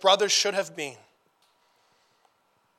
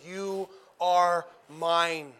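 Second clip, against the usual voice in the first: tender; much slower than usual. Acted. God embracing his returning people.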